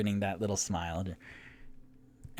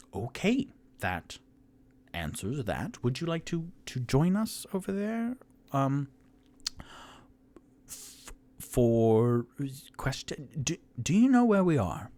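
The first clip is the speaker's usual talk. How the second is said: high character voice; 6 semitones higher, 3 dB louder than usual. Acted. Voicing character, much higher.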